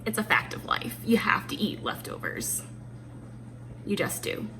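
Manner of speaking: whispered aside, like a confession. Real, not acted. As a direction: drop to a whisper to confide. Confiding aside about leftovers.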